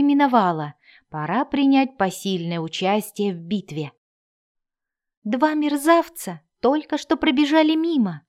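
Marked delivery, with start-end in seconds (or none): 5.2-8.2 raised halfling cry. Acted. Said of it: "крикнул он".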